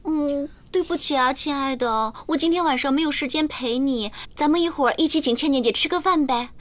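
lightly acted girlfriend's apology; a hint of coy girlfriend; sweet girlfriend act. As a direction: play the possessive girlfriend, sugar-coated. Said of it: "挽着他的手说".

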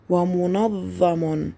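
ومنظم very slow, the doubled ظ held long; slow drilled ومنظم; slow model word. Shown as a demonstration. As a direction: lean on the shadda in ومنظم slowly. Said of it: "لاحظوا الشدة على حرف الظاء".

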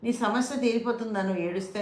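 gently asking. Shown as a demonstration. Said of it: "మెల్లిగా ఎలా అడగాలి".

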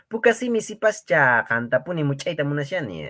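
hammed-up flirt; playful flirting. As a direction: tease the class with a pickup line. Playful flirty line to class.

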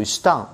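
"estão" ending in a nasal ão. Shown as a demonstration. Teacher to students, showing the nasal ending of "estão". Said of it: "带鼻音".

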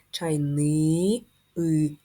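Чайни then и drawn out slowly; teacher pulling the и out of чайник; sounding out slowly. Shown as a demonstration. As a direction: stretch the и as you isolate it. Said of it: "голосний".

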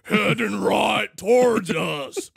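hammed-up battlefield warning; game soldier parody. Soldier warning of a Brummuk, mock shout. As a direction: warn the squad like an action hero.

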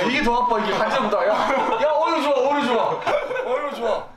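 being tickled. Real, not acted. Being tickled hard in game.

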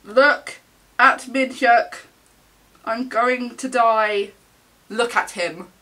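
loud, emphatic fangirl gushing; overwhelmed adoration. Real, not acted. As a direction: punch out each word, overcome. Overwhelmed by idol's photo.

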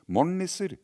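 put-on high, loud child's call to the elves; boy calling out. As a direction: call out brightly to the window elves. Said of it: "ropte han".

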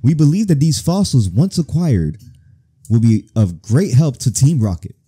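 emphatic mission briefing; put-on commander's voice, projecting; bossy Rocket superior. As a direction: lay out orders to underlings with authority. Boss explains the mission.

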